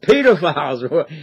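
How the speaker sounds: a hint of a British accent on "pedophiles"; British pronunciation. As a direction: lightly imitate the British "pedophiles". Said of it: "When he says pedophiles".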